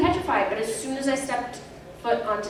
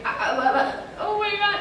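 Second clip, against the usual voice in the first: imitated crying gasps rising high; mock sobbing gasps; 10 semitones higher than usual. Child actor crying mid-take, mock sobbing. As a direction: play back the choked sobs lightly. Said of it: "when I started crying".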